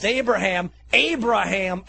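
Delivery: mild acted shout; angel's shout. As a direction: call the name out twice, second a bit stronger. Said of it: "He shouts".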